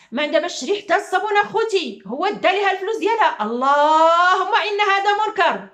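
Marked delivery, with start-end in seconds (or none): 3.4-5.7 slow outraged exclamation. Real, not acted.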